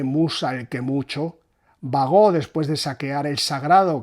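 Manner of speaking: measured epic reading; verse recital. Shown as a demonstration. Teacher reading the Odyssey opening to viewers, measured recital. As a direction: let the verse lines flow steadily. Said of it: "Voy a leer el inicio de la Odisea".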